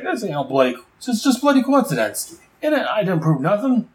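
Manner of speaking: high panicked Boomerang protesting to the gangster boss. Retold or imitated. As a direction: yelp out the denials in panic. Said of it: "Boomerang's like".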